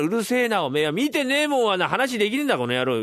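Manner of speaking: high, heated retort; angry husband. Acted. Husband shouting back at his wife about the dream, angry. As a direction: shout her down in exasperation.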